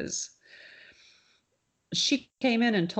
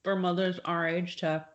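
chewing while talking. Real, not acted. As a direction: mouth full of crunchy ice. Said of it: "sorry, I'm chewing my ice".

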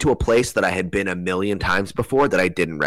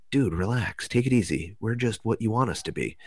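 soothing; 3 semitones higher, 5 dB quieter than usual. Retold or imitated. Beings calm the speaker again.

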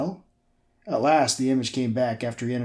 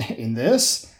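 incredulous; 3 dB louder than usual. Acted. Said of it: "Malcolm sounded incredulous".

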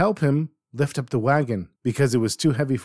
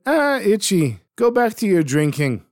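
higher, mocking brush-off; dismissive; 8 semitones higher, 4 dB louder than usual. A narrator's reading. The boys scoff at Itchy the drunkard, mocking. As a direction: wave him away with scorn.

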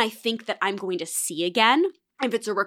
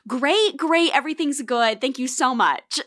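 over-polite reassurance; 3 semitones higher than usual. Acted. Diner placating waiter at the table.

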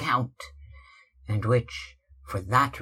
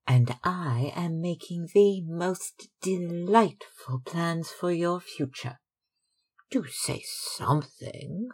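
put-on higher, bright-eyed young sister urging her brother; Sybil, eager; 8 semitones higher than usual. A narrator's reading. Sister pleading with sulky brother, lightly higher. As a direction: coax him playfully, pitched up.

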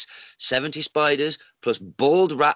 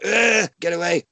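higher mock-frightened yell; startled recoil; 4 semitones higher than usual. Man retelling his caveman instinct at a rat, startled recoil. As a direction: blurt it out like a jolt of instinct.

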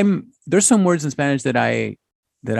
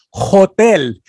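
higher, louder quoted question; retold exchange; 5 semitones higher, 4 dB louder than usual. Son acts out old chat, higher mock voice. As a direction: act out a small Spanish exchange. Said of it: "I would say".

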